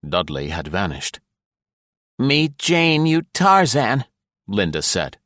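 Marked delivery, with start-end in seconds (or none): 2.2-4.0 mock Jane line, much higher and louder; playful high female voice teasing him; teasing wife's voice. A narrator's reading. Wife teases her husband with a Tarzan joke, high and playful.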